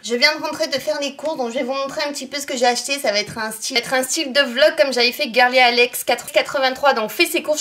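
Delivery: talking through hiccups. Real, not acted. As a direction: hiccups breaking into the words. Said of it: "j'ai le hoquet".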